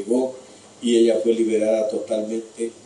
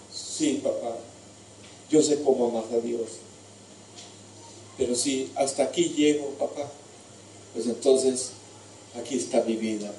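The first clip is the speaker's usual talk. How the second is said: resigned son; 6 dB quieter than usual. Acted. Isaac resigns himself to sacrifice.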